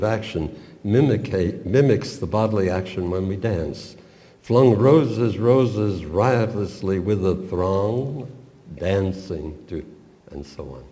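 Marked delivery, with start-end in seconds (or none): 4.4-9.8 theatrical poem reading. Shown as a demonstration. Reading the poem's lines aloud.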